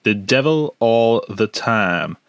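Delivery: slow, drawn-out Southern drawl; Southern accent. Acted. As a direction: read the title in a put-on Southern accent. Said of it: "I put on this bit of a southern accent".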